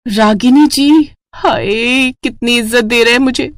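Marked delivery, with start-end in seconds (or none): 0.1-1.7 drawn-out, higher, delighted; swooning. Acted. Ragini thrilled her groom calls her respectfully, slow and higher. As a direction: savour the name slowly, thrilled.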